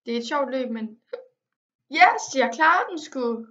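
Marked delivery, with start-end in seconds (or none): 1.9-3.5 loud, slow, high victory yell; shouted yes of relief; triumphant cheer. Real, not acted. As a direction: celebrate the win out loud. Finally beats the race.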